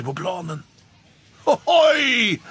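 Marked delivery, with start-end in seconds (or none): 1.4-2.4 high, loud jeering call; loud high crowd hoot; mocking shout. A narrator's reading. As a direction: jeer at the fallen cat. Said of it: "vad alla skrattade".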